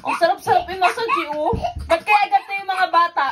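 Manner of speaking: laughing loudly while being tickled. Real, not acted. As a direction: laugh through the words, high and loud. Client ticklish, told not laugh.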